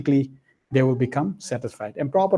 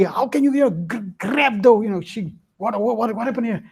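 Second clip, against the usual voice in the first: stammering, higher furious boss; angry boss; 5 semitones higher than usual. Acted. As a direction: sputter with rage at the maid. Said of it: "he was so angry".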